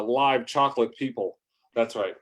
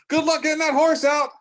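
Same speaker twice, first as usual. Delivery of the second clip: high, loud, mocking jeer; mean taunt; 7 dB louder than usual. Trucker mocks the boy stuck in mud, loud high jeer. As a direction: sneer it up high like a schoolyard bully. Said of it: "I was really mean".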